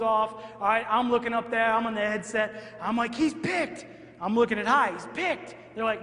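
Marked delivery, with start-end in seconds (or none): 3.1-3.9 sharp, higher shout of alarm; excited call. Retold or imitated. Coach on headset during play. 4.9-5.5 sharp, higher shout of alarm; excited call. Retold or imitated. Coach on headset during play.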